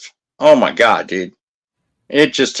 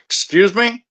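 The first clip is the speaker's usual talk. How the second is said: pitched way up, affronted Excuse me; imitating the office's shocked reply; mock indignant surprise; 10 semitones higher, slower than usual. Office staff balking at a lawsuit threat, mock affronted surprise. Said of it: "And they're like".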